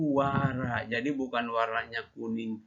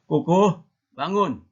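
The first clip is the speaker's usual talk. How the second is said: higher, louder mock mother calling a child awake; raised-pitch wake-up call, acted as mom; mother's wake-up call; 4 semitones higher, 7 dB louder than usual. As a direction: call out loudly as a mother rousing a sleeper. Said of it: "Alah, mama".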